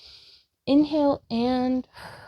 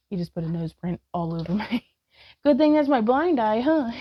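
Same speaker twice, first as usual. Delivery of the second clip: giggly, louder laugh through the words; laughing at the dog; 4 dB louder than usual. Real, not acted. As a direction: laugh as the dog licks you. Dog licks her face.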